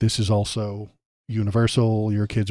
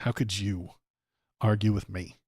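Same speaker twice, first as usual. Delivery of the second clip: a touch of huffy, softer indignation; whiny indignant Trump; 5 dB quieter than usual. Retold or imitated. Mocking Trump's face when fact-checked, softer huffy whine. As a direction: pout and whine, offended anyone would argue. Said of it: "you make this face like".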